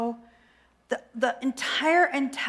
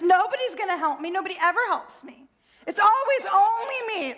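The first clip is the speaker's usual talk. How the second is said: fast, higher, near-crying tantrum; 7 semitones higher, faster than usual. Acted. Overwhelmed self wails to God in a tearful tantrum. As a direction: wail it like a sulking child. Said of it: "So not the point in my tantrum".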